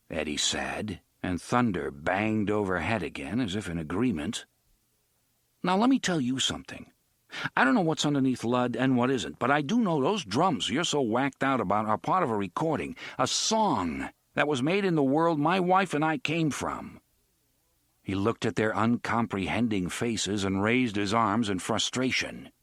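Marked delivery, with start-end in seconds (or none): 5.6-17.0 put-on fast, frustrated young man; a frustrated man setting them straight; exasperated. Frustrated Eddie lectures.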